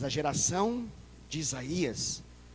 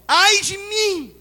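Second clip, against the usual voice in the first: very slow, high and loud; slow anguished wail; 12 semitones higher, 11 dB louder, much slower than usual. Acted. Preacher voicing Isaiah's broken cry. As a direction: stretch it out in despair. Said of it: "Ele fala".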